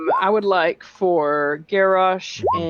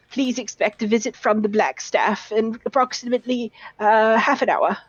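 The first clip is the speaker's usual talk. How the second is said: put-on lightly raised polite young scholar voice; formally relaying a message, slightly higher; bookish young lad; 4 semitones higher than usual. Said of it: "and he says".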